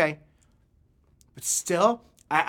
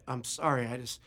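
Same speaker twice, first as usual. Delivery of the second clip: soft, halting mumble; subdued, stumbling confession; sheepish apology; 8 dB quieter than usual. Retold or imitated. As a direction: apologize quietly, ashamed and hesitant. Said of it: "he just kinda looked at his feet".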